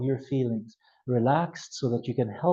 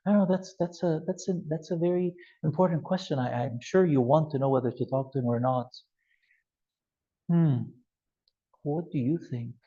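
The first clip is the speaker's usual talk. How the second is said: calm pausing. Shown as a demonstration. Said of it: "just use silence".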